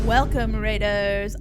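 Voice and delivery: loud, bright welcome shout; loud greeting. Real, not acted. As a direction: call out to greet the crowd.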